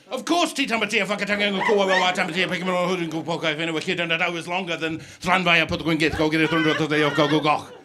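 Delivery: fast, loud indignant rant; rapid heated rant. Retold or imitated. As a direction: rattle it off at speed. Heated rapid argument about names.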